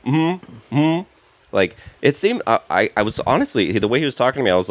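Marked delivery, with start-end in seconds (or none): 0.0-1.0 mocking heckler. Heckler mocking during joke.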